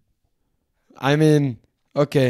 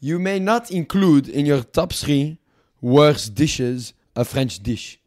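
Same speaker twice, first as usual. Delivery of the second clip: lightly put-on French accent, haughty; a smug French dealmaker, mock accent; 4 dB louder than usual. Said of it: "Fuck this French accent".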